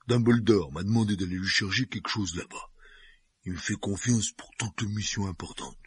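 proudly boasting giant. A narrator's reading. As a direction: puff up with pride. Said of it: "assura Hagrid avec fierté".

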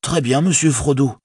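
high voice, a touch of bewilderment; comply, somewhat taken aback; mildly stunned. A narrator's reading. Servant yielding the ring to his master, mildly stunned. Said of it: "dit Sam plutôt stupéfait".

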